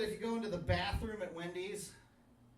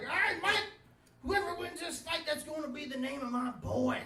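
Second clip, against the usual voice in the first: put-on slurring drunk dad voice; 7 semitones higher than usual. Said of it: "my dad staggering around like".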